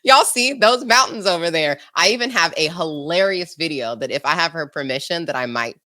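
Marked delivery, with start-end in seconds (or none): 0.0-1.8 high, insistent mock mom; imitating serious mom. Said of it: "she was serious with it".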